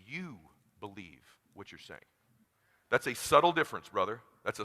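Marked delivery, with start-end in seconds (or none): 0.1-2.0 hushed reveal. Real, not acted. Speaker reveals the key to persuasion in a hush. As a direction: drop to a near hush on "you believe what you're saying".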